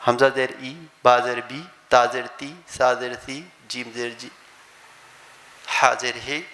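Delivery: kasra read as a short i, با زیر بی; teacher demonstrating Arabic kasra. Shown as a demonstration. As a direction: say بی with a clear i vowel, Arabic style. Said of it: "عربی میں ایسا نہیں ہے".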